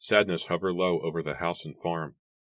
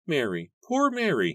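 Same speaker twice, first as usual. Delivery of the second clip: put-on old man voice; 10 semitones higher, 4 dB louder than usual. A narrator's reading. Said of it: "he muttered to himself".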